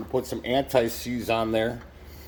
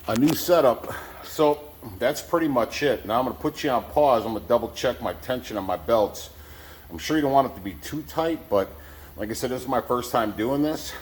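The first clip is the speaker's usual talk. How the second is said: slight lisp from new braces. Real, not acted. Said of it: "excuse my lisp".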